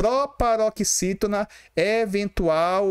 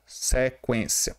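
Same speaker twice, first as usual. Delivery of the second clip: Sequência repeated slowly, each syllable drawn out; slow teacher repeat of Sequência; slow word demo; 4 semitones lower, 3 dB quieter, much slower than usual. Shown as a demonstration. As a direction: say Sequência slowly once more, clear and falling. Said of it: "Essa palavra aqui".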